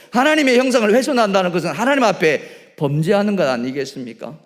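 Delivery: loud, rising pulpit voice; booming sermon emphasis; fervent preaching. Acted. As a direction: preach it with full force. Preaching at full force.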